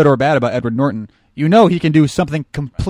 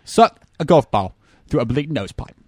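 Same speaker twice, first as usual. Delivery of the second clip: mock Michael Caine. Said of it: "he doesn't go".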